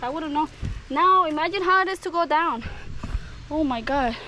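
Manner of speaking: out of breath from the climb; panting between words; heavy breathing. Real, not acted. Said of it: "Sorry, I'm breathing hard".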